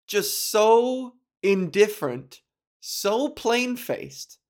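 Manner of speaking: deadpan. Retold or imitated. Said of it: "simmering in my indifference".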